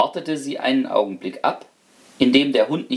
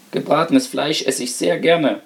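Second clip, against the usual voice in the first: modest; 3 semitones higher than usual. Acted. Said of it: "sprach die Ratte bescheiden".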